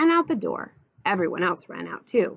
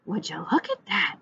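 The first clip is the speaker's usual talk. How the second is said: higher, mildly amazed exclamation; exclaiming; 7 semitones higher than usual. A narrator's reading. Woman leaving the bathroom sees animals, exclaiming. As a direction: let the pitch lift in surprise. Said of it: "she exclaimed".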